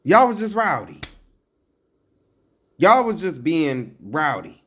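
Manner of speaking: loud, high exasperated outburst; high-pitched scolding cry; exasperated shout. Real, not acted. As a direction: yell it at Jersey in disbelief.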